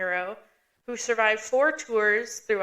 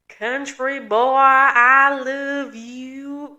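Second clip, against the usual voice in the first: meme quote; 3 semitones higher, 8 dB louder, much slower than usual. Retold or imitated. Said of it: "an old throwback to the old meme".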